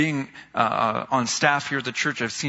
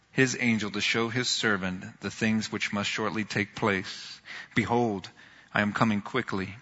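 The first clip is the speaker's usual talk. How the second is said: scripture reading; 2 semitones lower than usual. Acted. Reads Revelation passage aloud.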